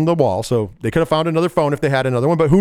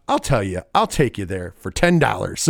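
put-on low kid voice; 8 semitones lower than usual. Voicing kid Bunt's offer.

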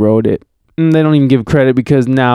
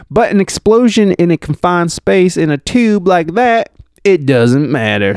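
lightly southern witness, raised then settling; southern accent; 5 semitones higher than usual. Acted. Reading Kofi's account of the explosion, light southern accent. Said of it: "I'm just gonna do a southern accent".

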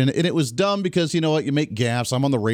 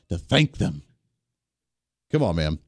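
lower, mumbled mimic of the line; mocking echo; 9 semitones lower than usual. Radio host mocking the president's speech, low mumbled mimic. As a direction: echo his words back with a sneer.

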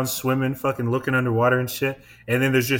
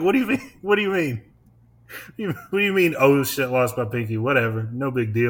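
mock disbelief. Mocking the fisherman who shrugged off losing his pinky, incredulous. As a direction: ham up baffled outrage at his calm.

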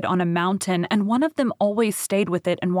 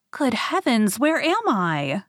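startled cry; 4 semitones higher than usual. Acted. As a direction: gasp it out as she wakes. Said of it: "she cried out".

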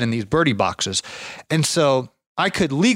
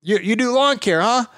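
imitating old man; 9 semitones higher than usual. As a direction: play the tired old neighbour. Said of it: "he's like".

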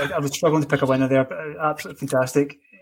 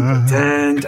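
dramatic dun dun dun; 5 dB louder, slower than usual. Pretend. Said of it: "audio drum roll going".

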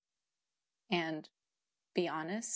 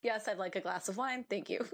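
super dry. Retold or imitated. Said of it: "super dry".

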